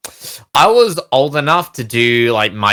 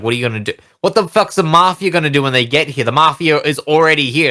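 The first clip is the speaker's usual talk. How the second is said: put-on Australian accent; 4 semitones higher, faster than usual. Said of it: "I can say that with an Australian".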